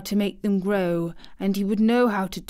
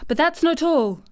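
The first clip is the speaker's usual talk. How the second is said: higher-pitched, excited announcement; solemn excitement; 7 semitones higher, 4 dB louder than usual. A narrator's reading. Girl has more secret news for the boy, solemn excitement. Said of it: "almost pale with solemn excitement".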